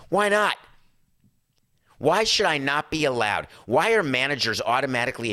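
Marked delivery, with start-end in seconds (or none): 0.1-4.0 indignant. Real, not acted. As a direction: demand an answer, outraged. Indignant rhetorical question.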